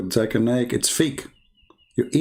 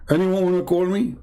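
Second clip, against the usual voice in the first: high mock call; 7 semitones higher than usual. Mock host inviting callers.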